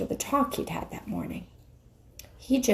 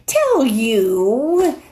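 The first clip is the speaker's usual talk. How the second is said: sharp, louder, rising voice; shriller; 5 semitones higher, 7 dB louder than usual. Acted. The witch snapping back at Aslan, shriller. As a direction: let the voice climb sharply. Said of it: "her voice growing suddenly shriller".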